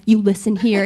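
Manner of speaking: firm self-scolding in the mirror; stern pep talk. Retold or imitated. Nervous singer talking to herself in the mirror, firm. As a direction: tell yourself off, firmly. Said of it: "I'd be like".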